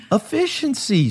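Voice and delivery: high, laughing echo of the word; host laughing as he repeats the cohost's quip. Real, not acted.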